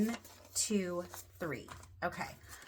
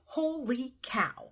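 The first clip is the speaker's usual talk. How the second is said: whispered in awe, higher; breathless whisper; 6 semitones higher, slower than usual. Real, not acted. Vlogger stunned by her savings, whispering in awe. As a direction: hush it out, stunned. Shocked by the cash total.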